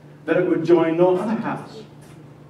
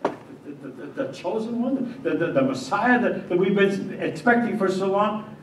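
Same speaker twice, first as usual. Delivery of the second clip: stammering shock; 5 semitones higher than usual. Acted. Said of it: "Still in shock".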